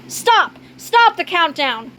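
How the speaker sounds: high, urgent call to halt; urgent shout. Acted. Interrupting a rocket countdown.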